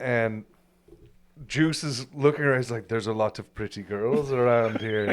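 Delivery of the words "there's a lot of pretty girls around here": put-on relaxed Caribbean accent in a man's voice. Telling someone who was there about an outdoor event, imitating Juice's Caribbean accent. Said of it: "he's got a very had a very awesome Caribbean accent".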